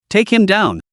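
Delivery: a lightly shouted command to fire; shouted order. Acted. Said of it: "the American officer shouted".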